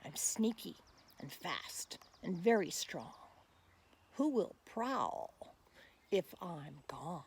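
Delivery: put-on slow, measured rhyming read for children; poem recitation. Reading a wild cat's poem aloud to children, measured recital. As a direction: recite it like a nature poem for kids.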